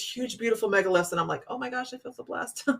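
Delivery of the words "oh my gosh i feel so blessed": mock blessed hush. Awe under megaliths.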